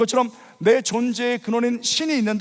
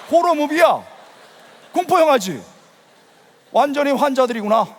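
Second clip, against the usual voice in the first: louder, higher exclamations; appalled disbelief; 4 semitones higher, 4 dB louder than usual. Retold or imitated. Preacher reliving his first church retreat night, appalled. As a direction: recount it like an appalled outsider.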